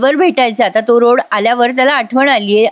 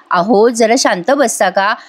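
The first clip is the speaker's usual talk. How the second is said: calm him down tenderly; gently coaxing; slower than usual. Retold or imitated. Wife soothing angry Jeeva, slow gentle coaxing. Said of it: "Nandini पुन्हा प्रेमाने म्हणते".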